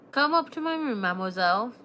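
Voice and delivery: exaggerated French accent. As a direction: put on a playful French accent. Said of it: "with an exaggerated French accent".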